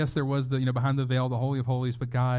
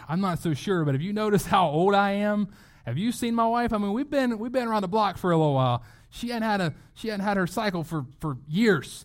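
mock protest to the angel, pitched higher; incredulous old Zechariah; 4 semitones higher than usual. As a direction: plead with the angel that you're too old. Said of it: "I can just see him just being like".

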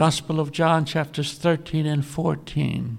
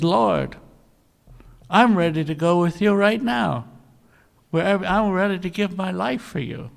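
mildly eager, raised voice; eager retelling; 4 semitones higher, 3 dB louder than usual. Retold or imitated. Peter pledges himself to Jesus, mildly eager. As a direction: jump in with a touch of eagerness. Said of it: "pops right up".

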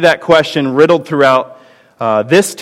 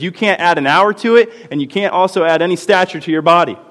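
put-on God reassuring his child; 5 semitones higher than usual. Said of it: "and says".

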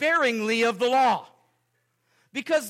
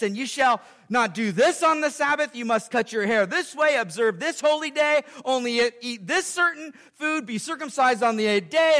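voice of the law; 3 semitones higher than usual. Pretend. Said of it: "The law then responds again".

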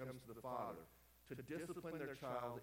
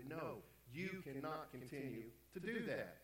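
slow, deliberate prohibition; firm parent; 3 semitones higher, slower than usual. Acted. Preacher acting a parent stepping in to say no, firm. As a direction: lay it down slowly, word by word.

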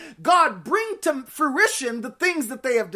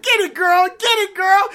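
high, loud hype cheer; shouted encouragement, pitched up; 5 semitones higher, 7 dB louder than usual. Retold or imitated. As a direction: egg her on like a fan in the crowd. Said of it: "And I be like".

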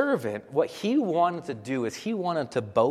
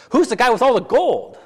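Laban; 8 semitones higher, 6 dB louder than usual. Retold or imitated. Laban voiced questioning servant.

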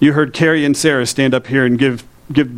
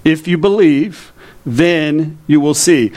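slow emphasis; much slower than usual. Shown as a demonstration. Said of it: "repeated slowly".

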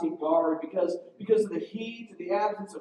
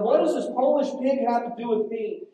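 high, loud contemptuous shout; angry yell; 4 semitones higher, 5 dB louder than usual. Retold or imitated. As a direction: spit it at him like a furious officer. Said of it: "the commandant yelled".

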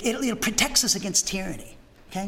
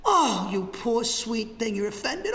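mock pity; slower than usual. Mocking the offended.

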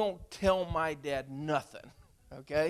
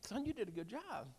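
soft, higher-pitched, tender quote of a father; imagined fatherly praise; 5 semitones higher, 8 dB quieter than usual. Retold or imitated. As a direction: gently voice the praise he longed to hear. Imagines his father's longed-for praise.

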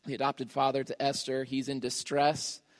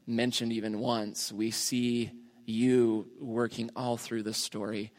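measured, subdued prayer voice; earnest public prayer, gently understated. Real, not acted. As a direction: pray aloud for the congregation, unhurried and restrained. Leads an opening prayer.

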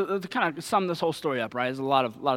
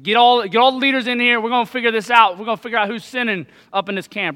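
a louder, higher barked order to gather the leaders; commanding Saul; 4 semitones higher, 5 dB louder, faster than usual. Retold or imitated. Saul orders the leaders in, raised and urgent. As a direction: voice Saul calling his leaders in, half shouted.

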